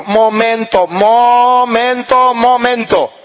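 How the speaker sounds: imitated mother calling for a pause; emphatic halt. Mother halting her worried family, emphatic.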